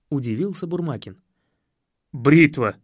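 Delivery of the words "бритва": strangled voice. Acted. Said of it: "сдавленным голосом произнёс я".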